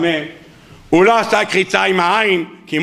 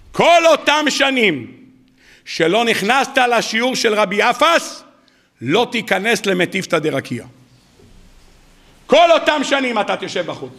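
solemn decree. Acted. Heavenly verdict quoted.

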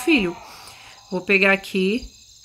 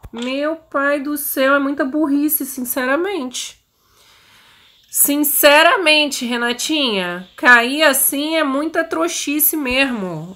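self-scolding; 5 semitones higher, slower than usual. Real, not acted. Scolding herself after falling.

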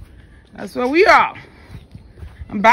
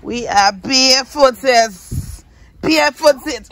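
loud exclaiming; 8 semitones higher, 5 dB louder, much slower than usual. Real, not acted. Exclaiming about going barefoot.

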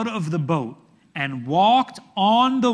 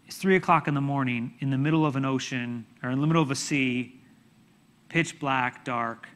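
low, quick, softened delivery; hushed, ominous aside; hushed scene-setting; 7 semitones lower, 6 dB quieter, faster than usual. Real, not acted. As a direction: drop low and soft to paint the dark. Dramatic hush setting scene.

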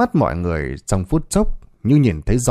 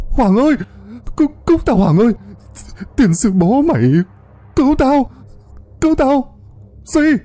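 panicked yelling. A narrator's reading. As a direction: scream for your friend while swimming for your life. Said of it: "cố gắng gông cổ lên mà gào". (gào thất thanh cầu cứu)

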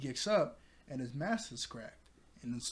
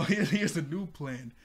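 laughing quote; 7 dB louder than usual. Retold or imitated. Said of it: "You know".

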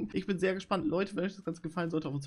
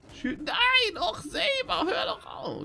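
panic squeal; 3 dB louder, much slower than usual. Real, not acted. Von Säbelzahn gejagt, Panik.

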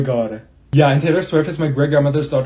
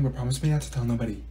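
ordinary talk

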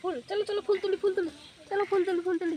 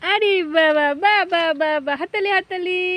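high, bright sing-song praise to a pet; excited coaxing; 3 semitones higher, faster than usual. Real, not acted. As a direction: coo at the pet as you adorn it. Coaxing pet, putting flower on. (উচ্ছ্বসিত আদুরে গলায়)

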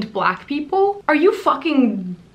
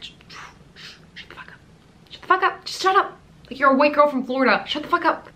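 much higher, fed-up outburst; exasperated; 5 semitones higher, much faster than usual. Real, not acted. Telling Lundy off over her tweet, exasperated and higher. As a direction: snap it off in disbelief.

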